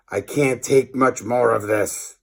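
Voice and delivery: pressed angry voice through clenched teeth. Acted. Furious professor seethes at the laughing class. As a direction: hold the fury back behind the teeth. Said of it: "said through clenched teeth".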